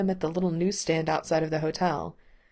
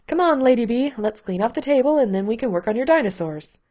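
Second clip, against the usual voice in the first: bright and upbeat, higher and louder; chirpy mom rallying her kid; cheerful; 6 semitones higher, 6 dB louder than usual. A narrator's reading. Lindsay cheerfully calling Bandit to clear the table, upbeat. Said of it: "Lindsay said cheerfully".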